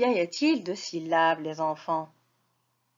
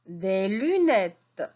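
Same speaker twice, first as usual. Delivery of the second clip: reading lesson voice. Acted. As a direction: sound out each syllable for little ones. Teacher reading lesson to children.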